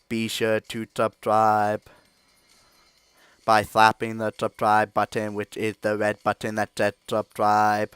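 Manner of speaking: slow, deliberate robot voice; Blitzcrank robot voice. Acted. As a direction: speak slowly like a clunky robot. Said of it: "imitation of Blitzcrank voice that I do".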